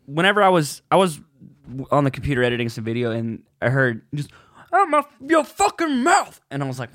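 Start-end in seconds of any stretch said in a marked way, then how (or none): 4.7-6.4 high slow mock yell; imitated shout. Recalling hearing the slap video, high drawn-out mock yell. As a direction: stretch it out like the shocked outburst. Quoting the Oscars clip.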